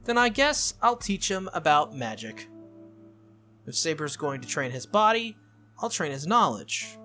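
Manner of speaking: lightly voiced brisk volunteer; Tosaka. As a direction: take charge, lightly in character.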